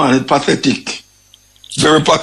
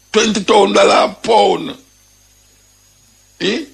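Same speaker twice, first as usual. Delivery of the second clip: outraged shout; 6 semitones higher than usual. Real, not acted. To viewers about ganja prices, an outraged shout. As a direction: shout the price out like you can't believe it.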